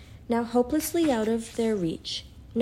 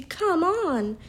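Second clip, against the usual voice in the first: urgent; 9 semitones higher than usual. A narrator's reading. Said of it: "said Lucy".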